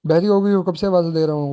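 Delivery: husband telling off his wife, annoyed; irritated scolding. Acted. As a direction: scold her for not answering. Husband scolding wife for not coming.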